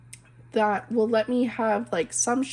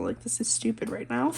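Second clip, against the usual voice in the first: a soft embarrassed laugh through the words; laughing through tears; 4 dB quieter than usual. Real, not acted. Embarrassed laugh after crying.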